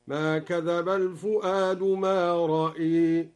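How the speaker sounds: رأي with the hamza vowel tilted toward e, slow; imala demo. Shown as a demonstration. Teacher demonstrating the imala reading, slow recitation. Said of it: "بإمالة الهمزة فقط هكذا".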